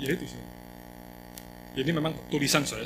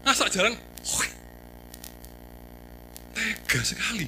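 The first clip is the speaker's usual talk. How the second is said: indignant outburst; 6 semitones higher than usual. Real, not acted. Indignant at photo of mess.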